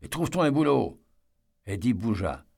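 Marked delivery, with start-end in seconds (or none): 0.0-1.0 mild mock yell, a little higher and slurred; drunken slurred yell. A narrator's reading. Drunk father yelling at his son on the couch, mild slurred shout. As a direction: bark the order like a drunk father, stumbling over it. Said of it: "hurla-t-il alors en bredouillant".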